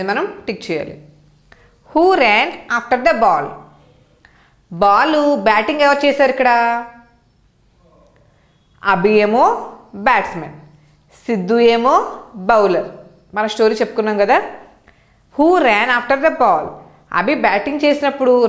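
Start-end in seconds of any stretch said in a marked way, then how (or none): 1.9-3.5 slow, careful reading. Shown as a demonstration. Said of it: "reads question slowly to class". 15.4-16.7 slow, careful reading. Shown as a demonstration. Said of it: "reads question again".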